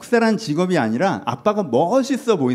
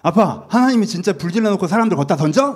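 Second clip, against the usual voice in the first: put-on upset little boy; 3 semitones higher, 5 dB louder than usual. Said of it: "이한이가 막 열받아갖고 왔더라고".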